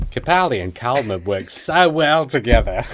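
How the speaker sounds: effortful, badly faked Aussie accent; Australian accent. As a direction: read the email in mock Australian. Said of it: "That's quite good".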